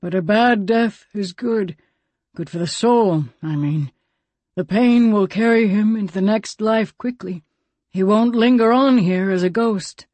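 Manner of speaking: a hint of a weathered elder; old man Grant. Grant voiced by narrator.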